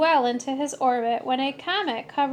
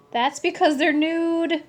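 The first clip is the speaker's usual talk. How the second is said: put-on girl voice; 6 semitones higher, 7 dB louder than usual. Little sister giggly claim.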